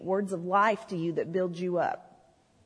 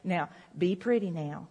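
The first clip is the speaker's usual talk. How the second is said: granny's gentle warning; 4 semitones lower, 6 dB quieter than usual. Retold or imitated. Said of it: "she'd always turn around and look right at me and say".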